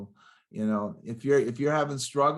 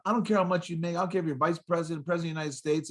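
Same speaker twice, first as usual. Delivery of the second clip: a little mousy; 4 semitones higher, much faster than usual. Retold or imitated. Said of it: "a little mousy".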